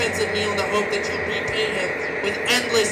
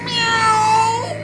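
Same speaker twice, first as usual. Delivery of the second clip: high mock cat meow; 9 semitones higher, 3 dB louder than usual. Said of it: "The cat says".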